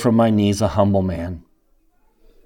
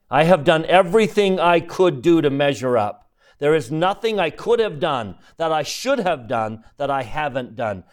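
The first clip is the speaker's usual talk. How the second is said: higher, pleading bitter outcry fading down; bitter protest; 4 semitones higher than usual. Retold or imitated. Officer protesting to God, bitter and pleading. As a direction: build the grievance then let it sink.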